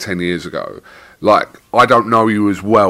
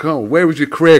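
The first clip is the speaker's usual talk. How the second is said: mock teasing; 5 semitones higher, 3 dB louder than usual. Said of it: "as in a bit of banter".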